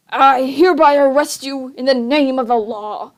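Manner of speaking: a touch of harsh authority; harsh official. Acted. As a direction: pronounce the arrest sternly. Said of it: "announced in a harsh voice".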